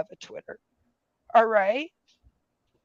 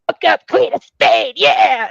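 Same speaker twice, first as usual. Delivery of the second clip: mock cheer; 6 semitones higher, 11 dB louder than usual. Mock cheer quoting a commenter.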